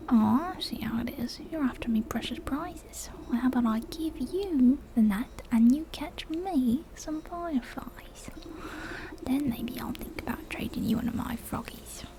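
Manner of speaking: wary young bargainer in a put-on accent; scrappy frog boy, suspicious. Frog boy bargains with a stranger over frogs, suspicious character voice.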